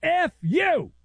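mock yell at the player; high-pitched mock yell; retold yell. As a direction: bark it like an angry ref.

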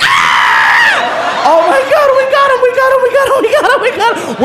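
high, giddy squealing repetition; hammed-up helpless glee, words tumbling in a loop; losing it. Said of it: "we lost it".

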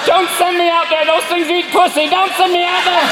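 high pleading cat voice; terrified cat. Acted. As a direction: beg frantically not to be put outside. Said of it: "your cat is sitting in the back going".

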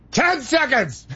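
sudden high-pitched mock yell; full voice. Host imitates producer's cue in his ear, full voice. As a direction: blurt the timing cue in a startlingly high voice. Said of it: "full voice, I would hear".

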